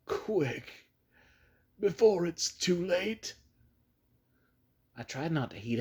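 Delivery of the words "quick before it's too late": softer hopeless resignation. Acted. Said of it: "acquiring a softer quality, as if of hopeless resignation".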